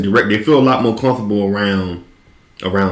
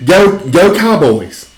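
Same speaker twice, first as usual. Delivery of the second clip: slow, high, drawn-out cheer; mock fan cheer; 7 semitones higher, much slower than usual. Fake Brit cheering the Cowboys, in a slow high chant.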